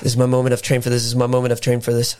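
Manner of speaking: low, repeated backstage pep talk; low-pitched self-motivating chant; hyping himself up. Pretend. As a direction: psych yourself up under your breath. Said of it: "that's just me hyping myself up backstage".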